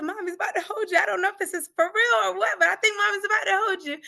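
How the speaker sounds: put-on high, lifted voice telling a baby good news; re-enacted high-voiced maternal excitement; excited mother-to-baby voice. Mother retells talking to her baby.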